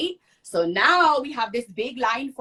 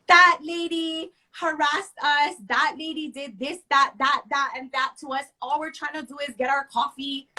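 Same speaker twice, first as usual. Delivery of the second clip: high, whiny mock of the woman playing victim; 5 semitones higher than usual. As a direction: play the innocent victim, whining. Mocking the other woman's complaint.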